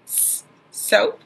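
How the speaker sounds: teacher sounding out soap; stretched first sound. Shown as a demonstration. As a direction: hiss then say "soap" slowly. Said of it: "sound like sandwich".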